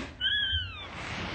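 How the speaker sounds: very high, soft squeal of laughter. Real, not acted. Laughs amid the rant.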